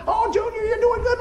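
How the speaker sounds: very high, squealing cheer; excited soccer mom. Retold or imitated. Mom cheering her boy at soccer, excited yelling. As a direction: imitate an over-excited mother yelling. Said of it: "screaming and yelling, not bad, she was just excited".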